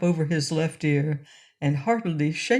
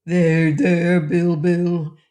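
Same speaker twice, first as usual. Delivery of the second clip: soothingly; 6 dB louder, much slower than usual. A narrator's reading. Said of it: "said King Rinky-Tink soothingly".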